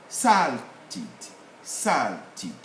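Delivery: "salted" in two parts, SAL ... tid; first-syllable stress. Shown as a demonstration. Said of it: "put the stress on the first syllable".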